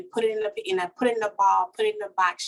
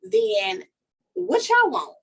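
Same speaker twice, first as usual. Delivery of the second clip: pitched way up, daring them; defiant challenge; 10 semitones higher, 3 dB louder, slower than usual. Retold or imitated. Woman to people after betrayal, high defiant challenge. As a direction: throw the question back at them.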